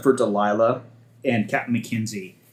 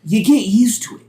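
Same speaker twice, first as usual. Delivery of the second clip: higher Southern gunner, easygoing; gunner role voice; 8 semitones higher, 6 dB louder than usual. Acted. Gunner reassuring the new crewman, higher easygoing voice. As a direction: brush it off kindly, pitched up.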